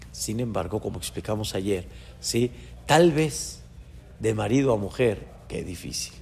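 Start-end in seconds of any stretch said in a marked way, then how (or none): 5.5-6.1 whispered aside. Acted. Sighing over father and son.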